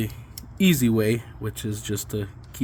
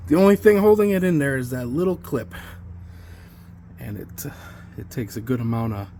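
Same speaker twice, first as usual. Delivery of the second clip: winded, breathing hard between words; out of breath from wrenching; heavy breathing. Real, not acted. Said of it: "Sorry, I'm breathing heavy".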